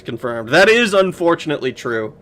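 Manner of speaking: usual speaking voice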